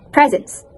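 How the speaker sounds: "presence" the American way, with a Z; American pronunciation. Shown as a demonstration. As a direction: say "presence" as PREZ-ens. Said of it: "In American accent".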